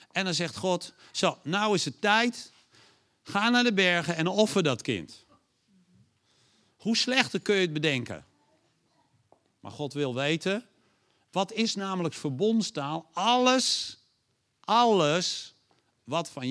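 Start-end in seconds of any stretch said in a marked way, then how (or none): 1.1-5.2 God commanding. Acted. 13.1-15.5 high, loud repeated word; preacher booming the demand of covenant, loud and high; emphatic call. Real, not acted.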